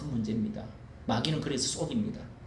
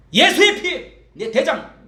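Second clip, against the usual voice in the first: loud rebuke; 11 semitones higher, 14 dB louder, slower than usual. Shown as a demonstration. Shouting a rebuke.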